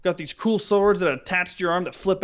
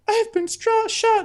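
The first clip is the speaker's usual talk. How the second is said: mock a badly acted death cry; hammed-up wounded actress. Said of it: "She's like".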